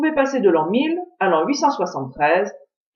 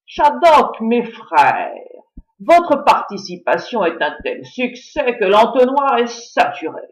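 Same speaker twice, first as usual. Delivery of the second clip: pompous chief's speech; slower than usual. Acted. Chief addresses all the Shaddocks.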